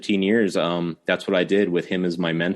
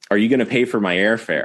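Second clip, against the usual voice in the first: mock-flippant, smart-aleck tone; 3 semitones higher, 4 dB louder than usual. Recounting a phone call while graduating college, repeating his answer: retelling a flippant reply. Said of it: "I very flippantly said".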